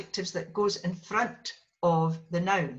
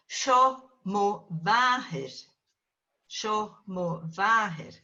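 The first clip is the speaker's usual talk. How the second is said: Sho Mo Vahir said slowly, each word apart; slow careful Gaelic; slower than usual. Shown as a demonstration. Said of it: "Here is my mother".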